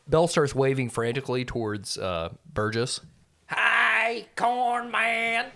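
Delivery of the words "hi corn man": higher, level creature greeting; held, broken-English hello; Belle's voice. Acted. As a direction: call out simple words as a captive creature. Belle calls to Burgess.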